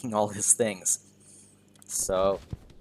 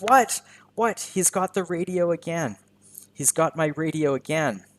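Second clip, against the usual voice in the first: high, startled What? then fretting; flustered groundskeeper; 6 semitones higher than usual. Retold or imitated. Groundskeeper upset the goose took his radio, higher and surprised. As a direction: play the baffled groundskeeper losing his radio. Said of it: "The groundskeeper's like".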